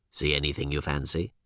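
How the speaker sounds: low, slimy alien voice; alien creature voice. Acted.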